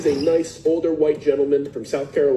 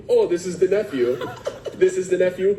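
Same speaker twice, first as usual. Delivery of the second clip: laughing realization; 3 semitones higher than usual. Retold or imitated. Realizing the nephew is in photos.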